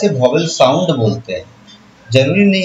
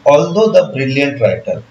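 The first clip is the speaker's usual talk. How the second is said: slow reading aloud; much slower than usual. Shown as a demonstration. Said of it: "teacher reads sentence aloud".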